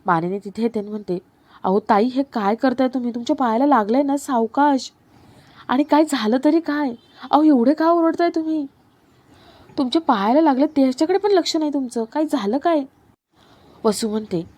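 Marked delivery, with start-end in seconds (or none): 1.6-12.8 raised, anxious pitch full of concern; worried fussing. Acted. Manini fretting over the injured Vasu, anxious and higher. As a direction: fret over her, voice climbing higher.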